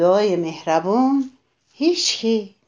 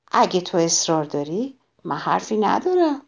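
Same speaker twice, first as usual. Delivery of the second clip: calm, unruffled. Acted. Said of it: "بدون اینکه عصبانی بشه".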